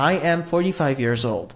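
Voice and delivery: slow, clear teacher model; slow dictation pace; slow model sentence. Shown as a demonstration. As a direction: spell it out slowly for learners. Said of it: "আমার বয়স পঁয়তাল্লিশ বছর".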